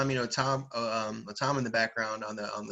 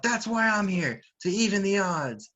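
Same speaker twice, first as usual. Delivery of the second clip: high-pitched heroic cry; acted battle cry, drawn out at first; Otama; 7 semitones higher, 3 dB louder than usual. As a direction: declare it in a high, raised voice. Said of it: "And then Otama screams out".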